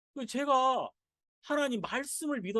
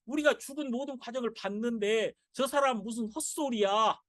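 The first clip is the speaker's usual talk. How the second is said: a touch of scoffing disbelief; mild jeering, slowed on the dead child; mocking crowd; 2 semitones higher than usual. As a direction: scoff at him lightly. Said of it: "그 말씀을 비웃었단 말이에요".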